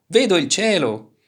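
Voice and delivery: high, loud cry of discovery; excited shout. A narrator's reading. Turtle flying belly-up sees sky, excited shout. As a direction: shout it with wonder from above. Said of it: "gridò".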